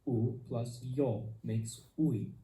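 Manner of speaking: A plus yo makes I, drawn out slowly with I gliding; teacher modelling slowly for learners, clear and drawn out; slow diphthong demo. Shown as a demonstration. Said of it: "Diphthongs are an important part of Esperanto pronunciation".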